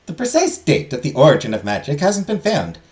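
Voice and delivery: a hint of a lilting, high-pitched teacher; lecturing teacher character. Teacher tells students about the first magical girl, lecturing.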